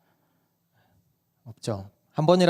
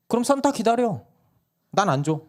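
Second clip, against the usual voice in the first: mother refusing; 10 semitones higher than usual. Retold or imitated. Mom refuses child.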